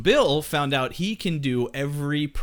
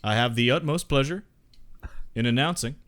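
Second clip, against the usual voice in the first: Bill Clinton impression. Shown as a demonstration. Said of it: "And your Bill Clinton".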